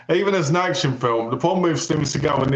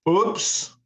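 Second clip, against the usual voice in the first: higher, mock-dismayed little voice; mock oops; 4 semitones higher, much slower than usual. One of the guys sees the blood, mock dismay. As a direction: play a hammed-up uh-oh. Mimics guy who shot infected man.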